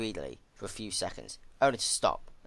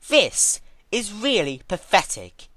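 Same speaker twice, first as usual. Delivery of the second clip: bored; 12 semitones higher, 10 dB louder, slower than usual. Acted. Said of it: "apparently very bored".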